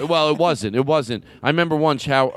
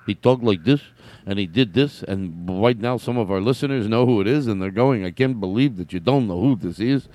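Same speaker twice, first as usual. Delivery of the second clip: Jackie Mason impression; 4 semitones lower than usual. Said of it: "when I talk like this, I'm getting pretty close to the way he talked".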